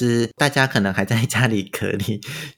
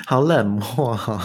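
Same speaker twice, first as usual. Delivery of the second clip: laughing. Real, not acted. Laughing reply to story.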